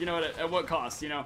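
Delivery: ordinary talk, nothing marked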